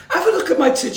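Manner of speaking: high-pitched Scouse woman impression; lightly hammed-up Scouse; mock Scouse accent. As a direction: put on a brash Scouse woman. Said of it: "Is that your Scouse accent?".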